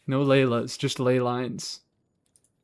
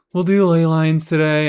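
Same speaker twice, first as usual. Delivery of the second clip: "do" pushed louder and higher; emphatic, louder "We'll do ley lines today"; louder insistence; 3 semitones higher, 6 dB louder than usual. Shown as a demonstration.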